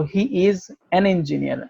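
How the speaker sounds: slow, with an before engineer marked; slow model sentence stressing an. Shown as a demonstration. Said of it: "এ না বলে".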